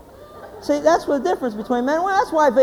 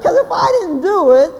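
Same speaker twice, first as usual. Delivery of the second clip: loud, higher, emphatic announcement; blunt declaring; 6 semitones higher, 4 dB louder than usual. Acted. Husband to upset wife, wanting the game, blunt. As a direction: declare it boldly as the obvious solution.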